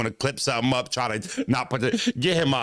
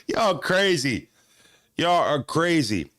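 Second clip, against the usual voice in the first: slow, amused disbelief; amused drawl; slower than usual. Real, not acted. Streamer tells chat they're crazy, slowly and amused. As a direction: stretch it out, still laughing.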